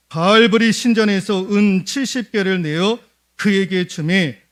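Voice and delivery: loud, measured Bible reading to the congregation; scripture reading. Acted. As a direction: declaim the verse from the pulpit. Reads scripture aloud in sermon.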